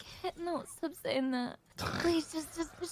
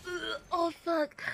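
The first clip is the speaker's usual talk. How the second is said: gagging through the words; dry heaving; slower than usual. Real, not acted. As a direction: retch then curse. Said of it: "There's fucking vomit coming up".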